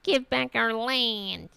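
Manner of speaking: slow, drawn-out imitation of a Georgia accent; mock Georgia accent. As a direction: parody a dubious Georgia accent. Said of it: "is that an accent that people share?".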